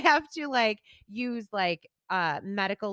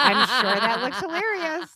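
laughing through the words, louder; 5 semitones higher, 5 dB louder than usual. Real, not acted. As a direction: laugh it off at herself.

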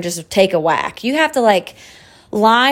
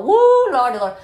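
whooping exclamation; 7 semitones higher than usual. Real, not acted. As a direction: let out a pitched-up woo at yourself. Exclaiming about her own anger.

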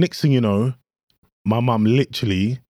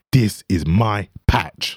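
mock menacing local; 5 semitones lower, much slower than usual. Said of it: "was like".

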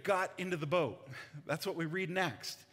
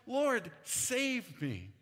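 panicked cry; 6 semitones higher, 3 dB louder, slower than usual. Acted. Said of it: "He said".

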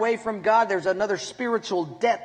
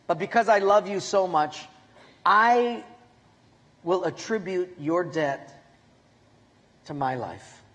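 tender. Pretend. God's words voiced tenderly.

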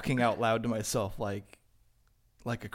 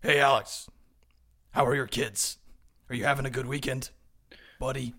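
friendly neighbor. Pretend. Friendly neighbor voiced in bit.

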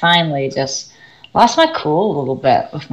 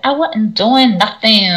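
slow, higher mock student with imitated African-American English; put-on African-American English; 4 semitones higher, 4 dB louder, slower than usual. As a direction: mimic a pupil affecting African-American English. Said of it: "ridiculous way she, uh, tries to emanate".

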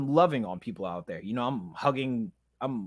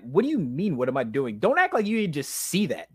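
pissed-off retort; 2 semitones higher than usual. Retold or imitated. Man retelling his argument with God, pissed-off protest. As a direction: throw the question back, annoyed and incredulous. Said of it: "I'm like, I'm pissed off".

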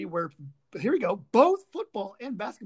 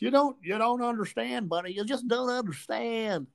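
mocking imitation. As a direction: drag it out to make fun of him. Re-quoting the fan to mock.

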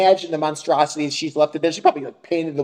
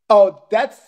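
imitated fussy neighbour; 5 semitones higher, 6 dB louder than usual. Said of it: "He's like".

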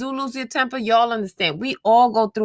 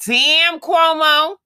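exclaiming damn; 7 semitones higher, 6 dB louder, much slower than usual. Real, not acted. Exclaiming at news.

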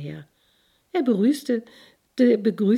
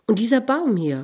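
higher, louder, eager burst; girl excitedly points at the tree, higher and louder; 6 semitones higher, 8 dB louder than usual. A narrator's reading. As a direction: blurt it out with excitement. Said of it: "fuhr es erregt fort".

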